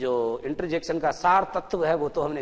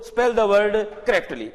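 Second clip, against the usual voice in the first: slow emphatic instruction; 5 semitones higher, 5 dB louder, much slower than usual. Shown as a demonstration. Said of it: "teacher stresses key words".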